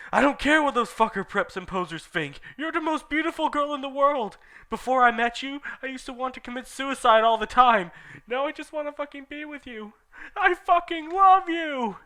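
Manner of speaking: passionate declaration. Acted.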